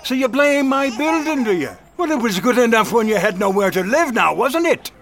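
scornful landlord sneering at tenant; mocking. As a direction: taunt him with a laugh in the voice.

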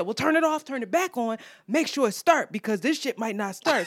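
pushy mimicked instructions; aggressive lecturing. Man telling her to restart the car, mildly aggressive lecturing. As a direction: order her about as the bossy stranger. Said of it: "so aggressive and stressing me out".

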